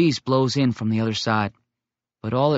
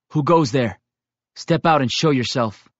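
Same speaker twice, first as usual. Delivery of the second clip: challenging call; 4 dB louder than usual. Acted. Bearmeat calls into the dark woods, firmly challenging.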